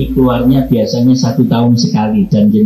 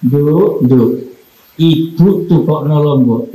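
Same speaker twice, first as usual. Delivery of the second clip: tender mother's call; 2 semitones higher than usual. Shown as a demonstration. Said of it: "Sama begini".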